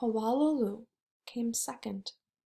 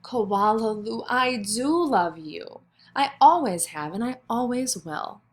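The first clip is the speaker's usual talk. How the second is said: tender mother. Acted. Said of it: "her mother had flung her arms around her neck and said".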